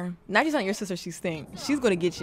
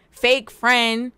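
louder, sassy jab; mock accusing; 5 dB louder than usual. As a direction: call her out, teasing. Teasing a sim, said twice.

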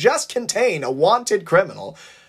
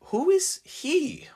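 wondering; 13 semitones higher, 4 dB quieter, slower than usual. A narrator's reading. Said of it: "wondered Marcel".

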